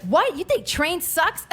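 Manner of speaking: high, slow offended disbelief; lady offended at the insult; shocked lady. Retold or imitated. Stranger hearing mom insult a band, mild disbelief. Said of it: "she's like".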